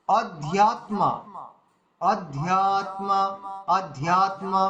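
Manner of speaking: "অধ্যাত্মা" said syllable by syllable, short and long kept apart; measured syllables. Shown as a demonstration. Teacher showing vowel lengths, "অধ্যাত্মা" in measured syllables. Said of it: "হ্রস্ব আছে।".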